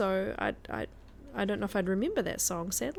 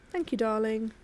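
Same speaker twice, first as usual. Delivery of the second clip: fake British accent. Shown as a demonstration. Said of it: "fake British accent".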